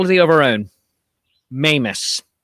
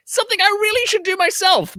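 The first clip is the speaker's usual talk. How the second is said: mock sheepish; 14 semitones higher than usual. Self-mocking aside.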